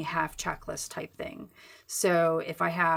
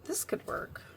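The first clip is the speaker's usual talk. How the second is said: whisper; 8 dB quieter than usual. Real, not acted. Whispering to herself while drawing.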